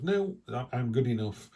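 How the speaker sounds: I'm good enough with a bright lift on No; mildly hammed-up self-assurance; confident. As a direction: claim it boldly, chin up. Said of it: "She just goes".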